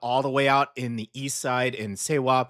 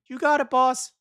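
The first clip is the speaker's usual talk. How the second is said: 1 playing the producer; 12 semitones higher, 3 dB louder than usual. Voicing the PD's reply.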